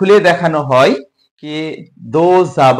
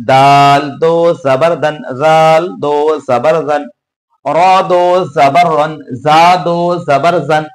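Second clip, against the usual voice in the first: rhythmic recitation drill. Acted. Teacher leading students through the alphabet drill, in a steady chant. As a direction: chant each letter with দো জাবার in a steady singsong.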